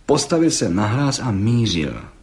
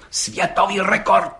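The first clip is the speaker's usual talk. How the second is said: slow, higher and solemn; 8 semitones higher than usual. Acted. Gendarme repeating it to the judge, solemnly. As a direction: proclaim it like a verdict. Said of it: "opakoval četník Hejda slavnostně".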